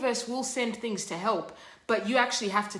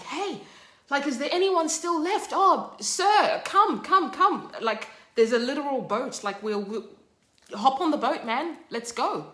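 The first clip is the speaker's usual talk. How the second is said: much higher, louder rescuer calling; urgent rescuers; 6 semitones higher, 4 dB louder than usual. Retold or imitated. Rescue crew calling Stan onto the boat, high and loud.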